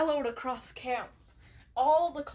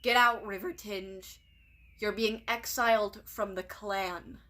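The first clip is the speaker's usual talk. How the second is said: deadpan; 2 semitones lower than usual. Acted.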